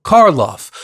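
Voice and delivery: loud, high excited name; excited shout. A narrator's reading. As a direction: call the name out as it comes back. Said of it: "and then shouted".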